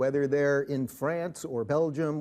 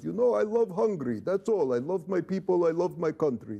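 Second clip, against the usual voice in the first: put-on earnest Hungarian-accented Orban, a bit raised; Orban impression; 3 semitones higher than usual. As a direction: lightly imitate Orban's accent. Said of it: "That's a dead-on impression of him".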